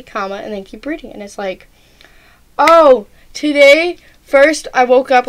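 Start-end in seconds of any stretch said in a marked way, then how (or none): 2.6-5.3 louder, slightly higher start of a story; chatty friend. Acted. Friend typing out their whole day, acted chatty and loud. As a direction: launch into a long, eager recap. Acting out a friend's long message.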